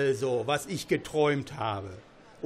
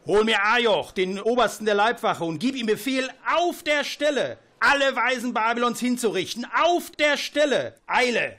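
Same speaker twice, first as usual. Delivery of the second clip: loud, rising barked orders; furious royal command; 5 semitones higher, 3 dB louder than usual. Acted. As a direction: order the killings in a rage. King orders executions. (wütender Befehl)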